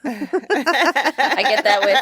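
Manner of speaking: talking through laughter; high, giggly start to a sentence; laughing. Real, not acted. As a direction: laugh your way into the words. Laughs while starting her answer.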